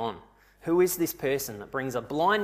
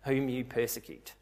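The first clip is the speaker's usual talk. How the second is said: voice of Jesus; 3 semitones lower, 5 dB quieter than usual. Acted. The voice Saul hears naming itself Jesus, solemn. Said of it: "The voice that you hear says".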